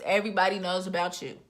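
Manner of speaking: lightly imitated singer's voice, quick. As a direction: toss it off as a quick mock impression. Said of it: it's the speaker's voice for that singer.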